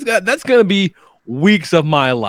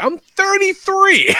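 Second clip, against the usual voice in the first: much higher, slow, drawn-out I'm thirty-three; exasperated mock outrage at the age remark; incredulous protest; much slower than usual. Repeats his age in disbelief.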